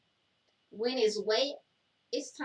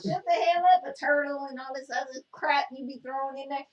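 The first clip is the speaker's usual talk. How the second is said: fast, higher-pitched telling-off; exasperated scolding; 4 semitones higher, 7 dB louder, faster than usual. Real, not acted. Co-host fed up with his turtle nonsense, exasperated scolding. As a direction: scold him loudly at a quick clip.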